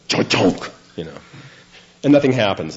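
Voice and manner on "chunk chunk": elevator clunk. Retold or imitated. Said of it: "it goes".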